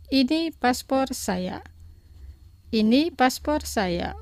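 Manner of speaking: slow repeat for learners. Shown as a demonstration. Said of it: "Los pronunciaré dos veces".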